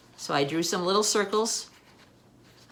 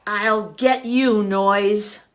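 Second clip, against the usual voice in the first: determined threat; 2 semitones higher, 7 dB louder, much slower than usual. Acted. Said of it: "Owl said".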